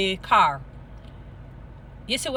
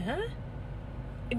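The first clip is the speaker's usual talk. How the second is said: surprised huh; 4 semitones higher, 11 dB quieter than usual. Retold or imitated. His reply to Jesus' question.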